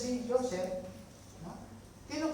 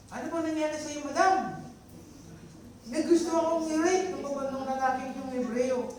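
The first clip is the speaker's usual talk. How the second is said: servants and madam, lightly voiced; 7 semitones higher, 6 dB louder than usual. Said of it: "Sabi niya".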